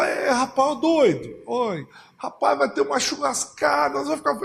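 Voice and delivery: high, teasing voice; lightly voiced scoffing neighbours; a touch of a neighbour laughing at Noah; mocking partygoers.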